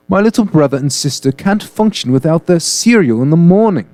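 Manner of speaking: lightly put-on British accent. Reading the milk victim's plea in mock British accent. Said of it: "I'm gonna say it in my best British accent".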